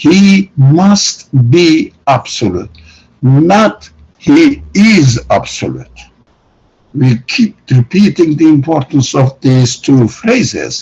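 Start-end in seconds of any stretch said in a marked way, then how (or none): 0.0-6.0 very slow, deliberate, each word laid out. Making a point clear to the audience, speaking very slowly. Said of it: "I'm speaking very slow to make the case clear".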